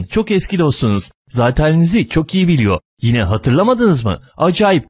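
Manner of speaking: fawning, high-pitched servant voice pushing on; obsequious caller. Acted. A caller sent by Abbas Bey fawns over the gentleman in a high voice. A new monologue, a servile caller.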